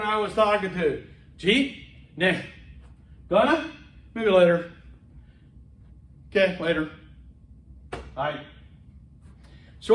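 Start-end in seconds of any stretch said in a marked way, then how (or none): 1.4-8.4 "Gee" and "Gonna" as squashed rising questions; slurred shorthand. Retold or imitated. Two Americans chatting about lunch, slurred shorthand. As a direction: swallow syllables in "Maybe later" and "Okay, later". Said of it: "we can shorten things".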